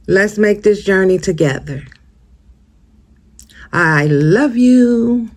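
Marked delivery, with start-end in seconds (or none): 3.7-5.3 slow and higher, drawn out tenderly; heartfelt sign-off. Real, not acted. To her viewers at the end, slow tender farewell. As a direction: hold each word like a hug.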